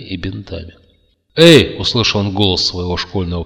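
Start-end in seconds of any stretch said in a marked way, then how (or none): 1.4-1.8 высокий резкий зов; окликни, чтобы разбудить; громкий оклик. A narrator's reading. Приятель будит Кертиса. (окликнуть во весь голос)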